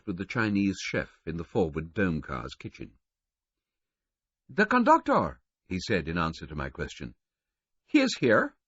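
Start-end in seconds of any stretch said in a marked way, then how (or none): 4.5-5.4 higher, louder cook's voice; lightly voiced chef. A narrator's reading. Chinese chef answering the question, lightly voiced. 7.9-8.5 high, louder chef voice; Chinese chef. A narrator's reading. Chinese chef telling him where the conductor is.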